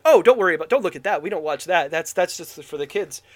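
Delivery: loud, hurried start easing back down; embarrassed brush-off. Retold or imitated. Director to visitors at his house, embarrassed brush-off. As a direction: mimic someone hastily waving visitors away. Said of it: "he was like".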